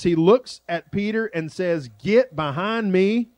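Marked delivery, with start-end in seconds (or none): 2.0-3.3 higher, slow retold rebuke; drawn-out, emphatic mock reprimand; pointed rebuke. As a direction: deliver the quoted rebuke slowly and pointedly. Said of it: "It doesn't get any more pointed".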